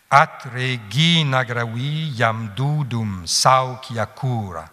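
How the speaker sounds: scansion lente et rythmée, longues bien tenues; vers latin scandé. Shown as a demonstration. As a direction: faire sentir chaque pied du vers latin. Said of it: "on peut le scander, vous allez voir qu'il y a un rythme". (latin scandé lentement, en mesure)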